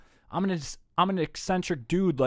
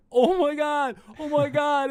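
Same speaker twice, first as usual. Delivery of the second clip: mock weeping Oh my God, much higher; high crying; 12 semitones higher, 4 dB louder, slower than usual. Imitating himself crying during the trip, high sobbing. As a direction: squeeze it out high like a teary sob. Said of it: "and then crying".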